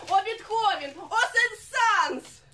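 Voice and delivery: high, mock-rapturous outcry to the masters; theatrical exclamation. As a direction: invoke your idols with grand, rising drama. Singer acts rapturous invocation of composers.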